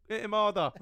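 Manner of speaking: half-laughed call to hit harder; laughing mock egging on. Brother laughing from the corner, mock cheering loud. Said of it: "I'm in the corner going".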